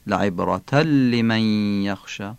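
لعبرتن لمن linked as "ibratal-liman"; tanween merged into lam. Shown as a demonstration. Teacher showing learners لعبرتن لمن, merged lam. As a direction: drop the n of لعبرتن into a doubled l.

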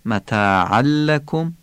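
متاعا لکم with the nunation folded into a doubled ل; tanwin merged into lam. Shown as a demonstration. Teacher shows the idgham in متاعا لکم.

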